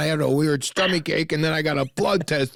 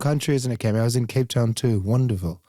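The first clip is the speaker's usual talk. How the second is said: mock South African accent; 3 semitones lower than usual. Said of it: "still a South African accent? It's really good".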